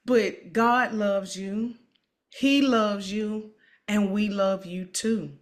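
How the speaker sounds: slow, tender reassurance; reassuring. Real, not acted. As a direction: lay each word down gently to comfort her. Comforting a sick guest.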